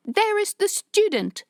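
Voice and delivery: loud, high call across the street; yelled. Acted. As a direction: shout it out to the crowd. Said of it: "someone yelled".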